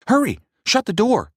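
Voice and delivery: high, loud frightened yell; panicked yell. A narrator's reading. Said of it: "yelled a classmate".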